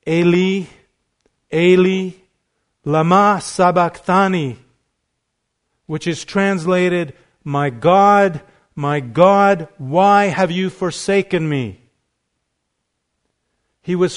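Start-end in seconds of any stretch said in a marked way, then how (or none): 0.1-4.6 loud anguished cry of Eli, Eli; cried out. Retold or imitated. Preacher voicing Jesus crying out from the cross. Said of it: "cries out". 7.4-11.8 loud pleading cry; cried out. Retold or imitated. Preacher voicing Jesus's cry of forsakenness. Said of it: "cries out".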